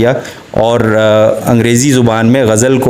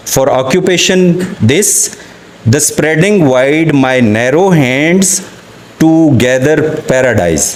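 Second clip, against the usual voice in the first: slow poem recital; much slower than usual. Acted. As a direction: read each English line slowly and deliberately. Reads Dickinson poem aloud. (धीमी, ठहरी हुई नज़्म-ख़्वानी)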